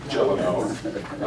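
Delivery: Gelano, slow and deliberate, stress on the middle syllable; said slowly. Shown as a demonstration. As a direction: Gelano spelled out slowly to set it right. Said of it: "I don't think that's right".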